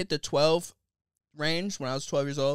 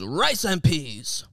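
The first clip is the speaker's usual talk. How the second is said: imitating TikTok woman; 3 dB louder, much slower than usual. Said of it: "that TikTok of the woman who goes".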